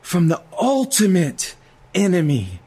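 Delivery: a lightly voiced Jesus; Jesus telling his people he saved them; Jesus speaking. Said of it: "he said".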